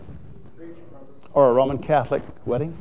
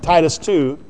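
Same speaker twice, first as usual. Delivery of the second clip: ordinary talk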